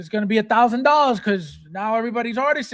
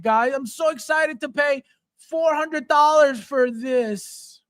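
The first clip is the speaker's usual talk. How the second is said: higher, half-shouted mock fan gushing; sarcastic mock excitement; 3 semitones higher than usual. Mocking fans who pay for kit bashes, sarcastic shout. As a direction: ham up a giddy collector, dripping sarcasm.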